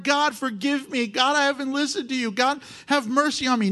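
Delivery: high, urgent mock prayer; broken repentance. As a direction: beg God for mercy as an acted penitent. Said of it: "Shouldn't he be broken before the Lord?".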